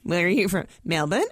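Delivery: Australian upspeak on the place name; lightly mimicked Australian, answering like a question; Australian accent. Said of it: "It sounds like you're asking me".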